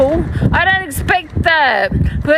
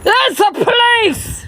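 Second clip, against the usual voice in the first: pitched-up, slow fake police shout; hammed-up police announcement; mock police call; 7 semitones higher than usual. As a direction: call it out like a joking cop at the door. Pranking neighbour, pretending police.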